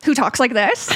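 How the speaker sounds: lightly voiced old lady, first try; sweet grandma voice. Testing a voice on co-host, lightly put-on grandma. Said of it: "how a very sweet grandma would call".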